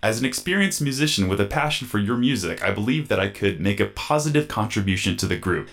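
robot voice reading a letter. Pretend. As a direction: read it like a stiff robot voice. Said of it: "cue the robot voice".

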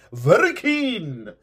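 slow drawn-out tease in a different voice. Pretend. Repeated teasing line.

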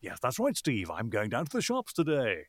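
a light hint of bouncy ad voice; Voiceover Man voice. Voiceover Man chatting to Steve, lightly voiced ad lilt. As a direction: lightly slip into the cheesy announcer lilt. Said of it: "he spoke like that all the time".

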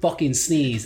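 slow, drawn-out exasperated teacher; mock annoyed teacher. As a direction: drag it out like a fed-up teacher. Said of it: "they'd just be like".

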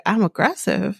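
retold challenge, sharply rising at the end; questioning echo. Woman challenging his accusation, retold questioning echo. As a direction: throw it back as a questioning echo. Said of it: "And she's like".

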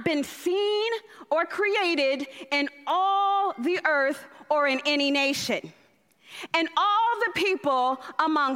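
reading God's words. Acted. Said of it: "And he said, he being God, said".

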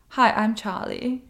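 slow, sultry "Hi, I'm Charlie"; sexy voice. Retold or imitated. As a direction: purr it out seductively. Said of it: "in her insanely sexy voice".

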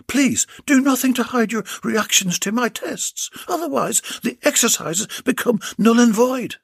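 high, commanding woman doctor; a lightly voiced stern doctor; bossy doctor voice. Doctor speaks to Bill.

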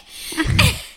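silent, airy squeak of laughter; high breathless giggle; high breathy laugh. Real, not acted. Laughing at own story.

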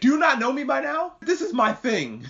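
Bill shrugging off Legoshi, high and cocky; mock smug Bill. Bill voiced, smug reply.

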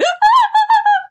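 loud high burst of laughter; sudden shrieking laugh; big laugh. Real, not acted. Laughing at painful memory.

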